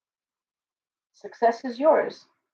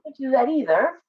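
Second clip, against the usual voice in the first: usual speaking voice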